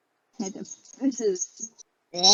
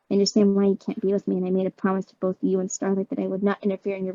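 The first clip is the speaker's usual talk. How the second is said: Twilight voice; 4 semitones lower, faster than usual. Acted. Twilight telling Shadow she will walk away, gently. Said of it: "Because I've been doing Twilight".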